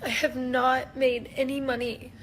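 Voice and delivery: crying through the words, real distress; ugly crying. Real, not acted. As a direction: voice wet and breaking with tears. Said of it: "I'm ugly crying right now".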